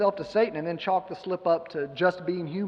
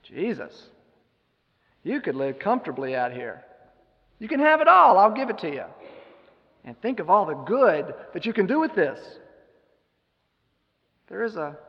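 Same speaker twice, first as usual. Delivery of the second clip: 1 Satan tempting; 2 semitones higher, 4 dB louder than usual. Retold or imitated. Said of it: "And he says to him".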